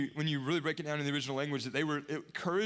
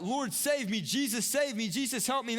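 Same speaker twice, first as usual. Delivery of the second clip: crying out for help; 5 semitones higher than usual. Retold or imitated. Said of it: "And then he cries out".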